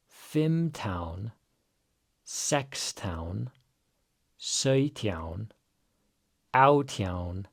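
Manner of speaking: teacher's list drill, each number separate. Shown as a demonstration. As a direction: say the numbers for repeating. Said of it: "Let's say 'em all together".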